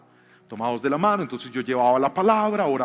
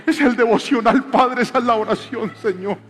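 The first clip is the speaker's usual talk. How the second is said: higher, loud preaching build; preaching at full force; 8 semitones higher, 7 dB louder than usual. Acted. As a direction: drive it home to the congregation. Fervent preaching climax.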